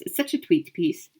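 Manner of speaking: Tweet said with a clear t in place of the s of sweet; a playful wordplay swap to Tweet; pun on tweet. Shown as a demonstration. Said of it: "Get it?".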